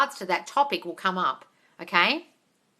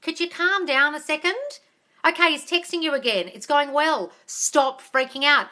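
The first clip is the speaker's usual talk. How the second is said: exasperated calming; 6 semitones higher, 3 dB louder than usual. Retold or imitated. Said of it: "I'm like".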